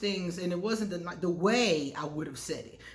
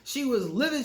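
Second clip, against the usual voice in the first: higher and louder, laughing through it; 6 semitones higher, 4 dB louder, much slower than usual. Real, not acted. Telling viewers her ex was livid, laughing. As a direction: laugh at how furious she was.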